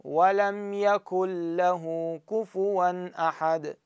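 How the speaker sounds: very slow chanted recitation, يكن له merged as يكلّه; Quranic recitation. Shown as a demonstration. Teacher reciting slowly for students. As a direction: chant it slowly, the نون vanishing into the لام. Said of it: "أقول".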